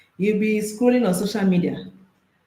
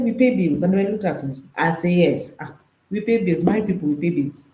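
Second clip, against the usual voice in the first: mock protest. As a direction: drive home the married chores. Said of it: "I said".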